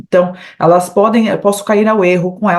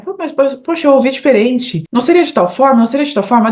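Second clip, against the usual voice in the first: higher voice of a confused learner; puzzled student; 5 semitones higher than usual. Retold or imitated. Teacher voicing a confused student, puzzled and higher. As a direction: play a student who doubts what he heard. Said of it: "às vezes a gente estranha".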